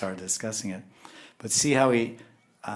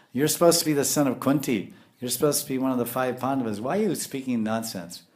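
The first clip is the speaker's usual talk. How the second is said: mock insult; 3 semitones higher than usual. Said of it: "So he would insult him".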